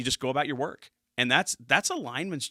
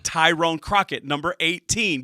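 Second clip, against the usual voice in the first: excited; 5 semitones higher, 8 dB louder than usual. Real, not acted. Hyping player, calling out.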